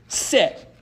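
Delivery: high, loud dog-training commands; shouting. A narrator's reading. Girl with a ball facing Cerberus, shouting. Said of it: "She shouted".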